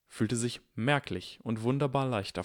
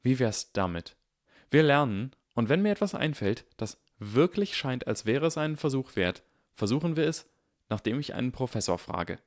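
conciliatory Harry; 5 semitones higher than usual. Acted. Harry proposing.

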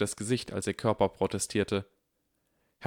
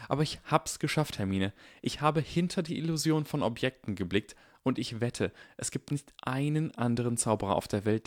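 put-on eager boy explaining, raised pitch; excited Harry; 4 semitones higher than usual. Harry explains eagerly, voiced higher.

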